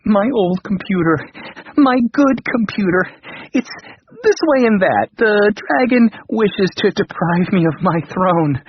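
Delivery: high, pleading king's cry; frantic king crying out. A narrator's reading. Panicked king begs his old computer, high and pleading. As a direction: beg the machine for help, voice up high. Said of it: "he cried".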